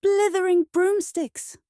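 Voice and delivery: loud, high, drawn-out exclamation; exasperated shout. A narrator's reading. Winnie trips on the doorstep, shouting crossly. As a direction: shout it slowly like a comic curse. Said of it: "shouted Winnie".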